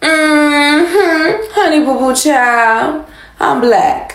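very high, slow voice, "honey" stretched long. On stage after the previous performer, doing an impression of the previous black lady. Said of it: "I'm going to do an impression of the black lady that just went before me".

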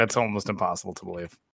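sarcastic, mock astonishment, feigned disbelief. Replying to a continuity complaint about the show: sarcastic. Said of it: "I can sense your sarcasm".

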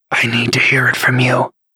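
lethal, menacing whisper. Delin demands an answer from the bishop, in a deadly whisper. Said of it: "Delin said in a deadly whisper".

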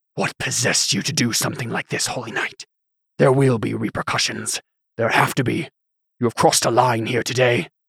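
harsh, whispered voice. A man on the study floor, regaining his breath, addresses the holy knight in a harsh whisper. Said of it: "spoke in a harsh whisper".

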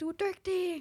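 put-on very high-pitched loud shout, as if from afar. Retelling the fiancé calling from the other end of the apartment, retold shouting. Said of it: "råber min forlovede fra den anden ende af lejligheden".

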